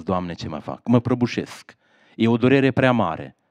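low, soft, broken plea to God; despairing prayer. Acted. Abandoned mother praying to God, low and broken. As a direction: pray as if collapsing.

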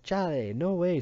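high, loud, excited denial; animated boyish protest; emphatic protest. A narrator's reading. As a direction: burst out in disagreement. Boy protests Matt's self-blame.

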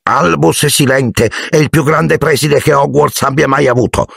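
high elf voice, fervent praise; reverent house-elf. A narrator's reading. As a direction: extol the great wizard as a devoted little elf. Narrator voices Dobby praising Silente. (elfo devoto, voce acuta)

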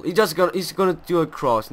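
ordinary delivery

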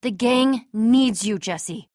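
slow, soft parting words; slow down and let the name fall very low and soft; quiet earnest plea. Acted.

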